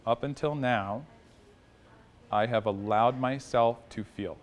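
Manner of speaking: slow, with a pause after "Up until now"; slow, deliberate mantra. Shown as a demonstration. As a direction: say "Up until now, I have allowed myself to feel" slowly, weighing each part. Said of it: "Why do you suppose we would say it in that way?".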